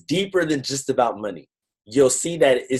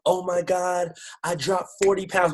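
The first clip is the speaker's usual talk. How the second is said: high-pitched, mildly weepy retelling; put-on emotional voice, raised in pitch; imitated crying caller; 8 semitones higher than usual. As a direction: lightly mimic a tearful woman on the phone. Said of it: "She's crying".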